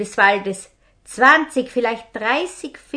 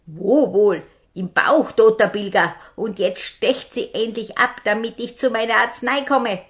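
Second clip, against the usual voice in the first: louder, impatient bandit snarl; angry captain; 3 semitones higher, 6 dB louder than usual. Acted. Sick robber captain demands his medicine, angry and louder. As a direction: snap at the healer to get on with it.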